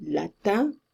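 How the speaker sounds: "Latin" ending in nasal "un", no n; French nasal vowel. Shown as a demonstration. Teacher has students compare the vowel, French nasal. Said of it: "it's the same un".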